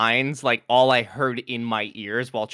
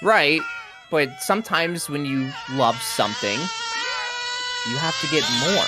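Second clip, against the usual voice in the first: dramatic tearful; 5 semitones higher than usual. Acted. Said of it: "to make the most dramatic".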